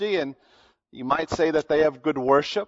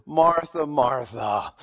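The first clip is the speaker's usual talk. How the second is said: tender rebuke; 4 semitones lower, slower than usual. Retold or imitated. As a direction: say her name gently, with love. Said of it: "there's love in that".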